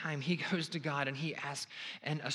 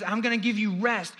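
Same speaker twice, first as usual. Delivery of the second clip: louder, higher preached promise; joyful promise; 6 semitones higher, 8 dB louder than usual. Acted. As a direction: proclaim rest with joy. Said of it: "He says".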